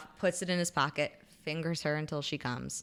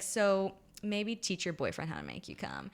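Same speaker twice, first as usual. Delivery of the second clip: deadpan, softer retelling of a cool remark; emotionless; 2 semitones higher, 5 dB quieter than usual. Retold or imitated. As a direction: deliver it showing no emotion, understated. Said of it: "he's not showing any emotion".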